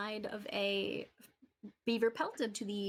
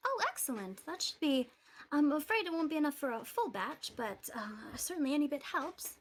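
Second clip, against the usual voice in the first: gentle shopkeeper; 4 semitones higher than usual. Acted. GM voicing Adabra.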